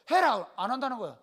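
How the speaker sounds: short insistent order to a wife; retold order.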